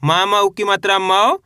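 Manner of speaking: chanted spelling, last मौ stretched and rising; name letter and vowel sign, then lift a long मौ; spelling out aloud. Shown as a demonstration. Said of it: "अब उच्चारण किस तरीके से करेंगे चलिए देखिए".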